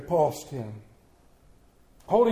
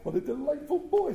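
delighted; 7 semitones higher than usual. A narrator's reading. Scrooge chuckles over boy.

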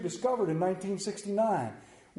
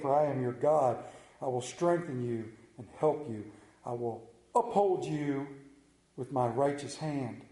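scripture reading; 4 semitones lower than usual. Acted. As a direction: read God's promise deliberately, phrase by phrase. Reads scripture aloud to congregation.

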